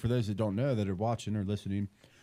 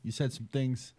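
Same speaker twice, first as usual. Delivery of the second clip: movie quote. Retold or imitated. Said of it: "Billy Bat scene where he's like".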